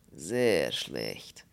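slow, heavy foreign voice in broken German; slow Polish character voice. Acted. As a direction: drag the words out like a doleful Pole. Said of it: "wiederholte der Pole".

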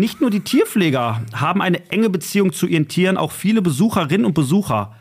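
mock official brochure read; reading a brochure aloud. Reads a zoo brochure aloud.

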